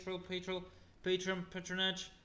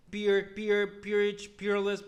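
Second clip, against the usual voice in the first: loud reading; 8 dB louder, slower than usual. Shown as a demonstration. Loud burst of words.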